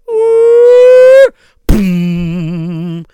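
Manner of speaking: playful jump cry. Acted. Beggar jumps onto the bed.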